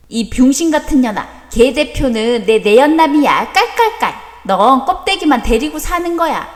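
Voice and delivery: a mild mock gloat with a put-on cackle; imitating her sneer. Wife mimics how the rival silently mocked her, smugly. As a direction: lightly act out the rival's smug taunt. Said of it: "너 이렇게 나를 비웃었잖아".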